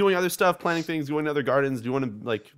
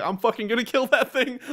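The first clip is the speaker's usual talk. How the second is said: mock exasperation; 10 semitones higher than usual. Retold frustration at Pester.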